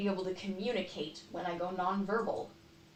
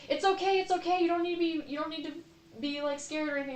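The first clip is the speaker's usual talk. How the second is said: much higher, sing-song mock reassurance; mock soothing; 8 semitones higher, faster than usual. Imitating people who soothe her as if she were scared, high and sing-song. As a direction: parody the well-meaning soothing voice. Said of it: "people say, like".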